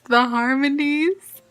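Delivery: drawn-out, savouring "the harmonies"; gushing. Real, not acted. Vlogger raving about her cover, gushing slowly. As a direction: gush slowly over "the harmonies", holding back a little.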